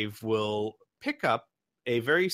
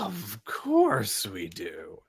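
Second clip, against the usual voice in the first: slow oily merchant; 2 semitones lower, much slower than usual. Acted. Fame answering Kid.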